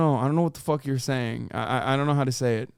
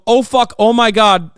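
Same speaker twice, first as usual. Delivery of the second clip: loud, higher mock cry of alarm; mock panic; 6 semitones higher, 9 dB louder than usual. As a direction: blurt it out in fake panic, high. Mock British panic peak.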